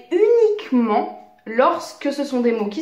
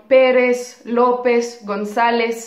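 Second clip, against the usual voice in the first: "Pérez, López, González", each stressed on the next-to-last syllable; penultimate stress. Shown as a demonstration. Teacher cites very famous names, stressing the accented syllable of "Pérez", "López", "González". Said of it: "on va également avoir un accent écrit".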